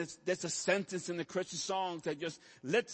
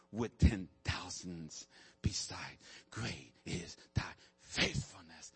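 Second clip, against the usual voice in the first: reverent hymn words; 6 semitones lower, slower than usual. Real, not acted. Preacher tenderly reciting his favourite hymn, whispering. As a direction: breathe the hymn words out gently. Quoting hymn lyrics softly.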